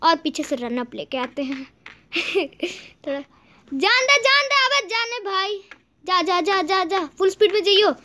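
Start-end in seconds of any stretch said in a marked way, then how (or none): 3.7-7.9 high, excited egging on; excited urging. Real, not acted. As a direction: urge him on in a high voice. Urging the game character onward. (जोश में उकसाते हुए)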